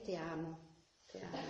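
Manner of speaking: un "te amo" burlón, suave y beatífico; mock serene tenderness. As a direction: susurra con dulzura exagerada de santo. Parodia del budista siempre sereno. (imitación burlona de un budista plácido)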